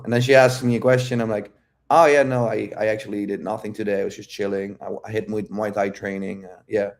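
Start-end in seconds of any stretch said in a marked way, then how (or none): 1.9-6.9 grounded, chilling. Retold or imitated. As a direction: answer lazily at ease. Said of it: "I'm just grounded, chilling".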